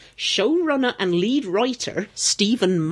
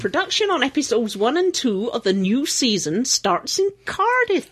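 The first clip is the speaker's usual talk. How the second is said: put-on West Country accent. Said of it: "that's better, I got it".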